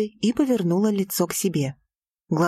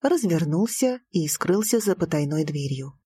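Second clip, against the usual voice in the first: plain reading voice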